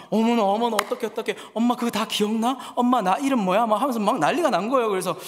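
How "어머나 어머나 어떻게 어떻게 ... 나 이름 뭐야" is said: excited amazement. Retold or imitated. Daughter amazed mother remembers hymns.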